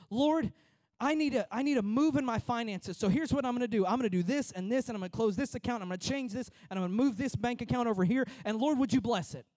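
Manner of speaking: loud, pushy prayer that lays out its own plan; demanding prayer. Retold or imitated. Preacher mimics a pushy believer praying: loud and demanding. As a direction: boss God around with your plan. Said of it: "That's our prayer sometimes".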